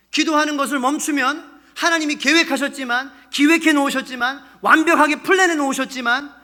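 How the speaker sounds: loud, high, emphatic sermon delivery; full-force preaching. Acted. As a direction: proclaim it forcefully to the congregation.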